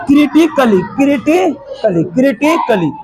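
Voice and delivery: "क्रिटिकली" ending in short "klee"; silent A. Shown as a demonstration. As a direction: drill "क्रिटिकली" with no "ai" sound. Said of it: "उस प्रकार ये". ("क्रिटिकली" में ए silent रखकर)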